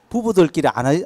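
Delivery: normal talking voice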